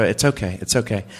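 understated low-key comforting; mild reassurance. Retold or imitated. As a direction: retell calming your wife down, pitched low. Retold reassurance to panicking wife.

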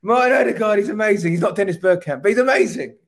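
high, loud gushing pundit voice; mock pundit praise. Mocking how pundits would never caveat Odegaard, hammed-up gushing. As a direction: gush like an overexcited pundit. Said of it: "You don't go".

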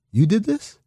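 mock disbelief. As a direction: act the stunned old scout. Old scout reacts to intern.

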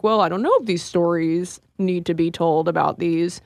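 a hint of stiff corporate doubt; stiff studio executive. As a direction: lightly put on a stuffy executive. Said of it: "that was my impression of the studio system".

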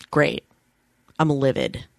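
livid, but without any yelling; understated anger. Retold or imitated. Friend quotes roommate taking bad news on the phone, understated anger. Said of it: "instead she just went".

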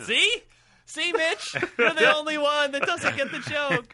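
high, loud gloating; teasing. Real, not acted. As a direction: rub it in with a gloat. Teasing Mitch loudly.

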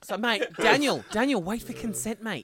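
mate, slow down, a pleading scold; exasperated. Real, not acted. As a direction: rein in a friend who is rushing. Exasperated at character's rash move.

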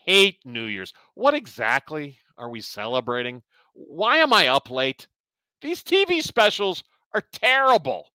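lightly voiced grumpy old man; old man rant. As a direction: grumble like a cranky old man. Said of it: "Let's go to your old man rant".

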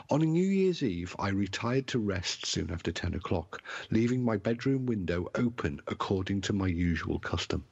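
put-on theatrical English accent, carefully enunciated; fine English accent. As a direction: read it like an old ghost tale in fine English. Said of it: "use my finest English accent".

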